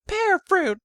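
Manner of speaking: the mother speaks inside the hero's mind, high and tender; mother's inner voice. Acted. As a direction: read it out like a gentle, slightly chastising mother.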